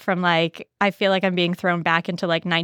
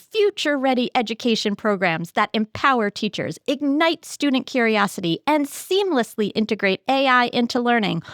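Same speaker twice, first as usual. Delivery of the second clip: newscaster voice; 4 semitones higher than usual. Shown as a demonstration. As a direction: announce it like an evening news anchor. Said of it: "in my best, like, newscaster voice".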